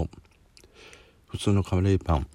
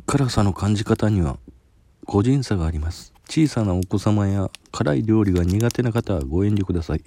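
reading a printed notice aloud, slightly raised; warning label read-out; 3 semitones higher, 4 dB louder than usual. Real, not acted. Taster reads the spice warning off the package, read-out voice. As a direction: read out the caution as a formal notice.

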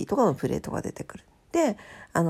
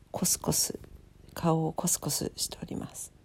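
soft, unvoiced whisper; hushed whisper; 2 semitones lower, 8 dB quieter than usual. Real, not acted. Cat rubbing face, hushed. (ひそひそ声)

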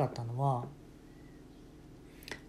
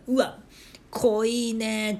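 amazed tasting; 7 semitones higher, much slower than usual. Retold or imitated. Parents tasting the soup.

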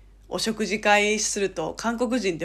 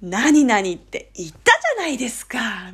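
emphatic nudge. Shown as a demonstration. Friend reminding a close friend, insistent. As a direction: press it home as a friendly reminder. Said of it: "このニュアンスわかります？".

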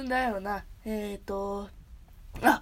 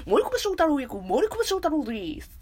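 louder, hammed-up self-introduction; Morikubo; 4 semitones higher, 4 dB louder than usual. Streamer retrying a voice actor's introduction, exaggerated impression. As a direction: push it out and stretch the ending. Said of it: "森久保さん。".

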